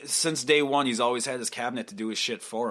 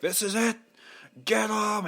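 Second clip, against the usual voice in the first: higher, eager mock cry; mock media frenzy; 10 semitones higher than usual. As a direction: hype it like a baying mob. Media mocked as a mob.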